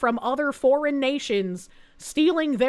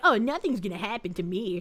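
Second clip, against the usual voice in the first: play-acted cocky, smug, half-laughing tone; 4 semitones lower, 5 dB quieter than usual. Mocking a woman in a video who is smug and laughing: imitating a smug person. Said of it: "she's just smug and laughing".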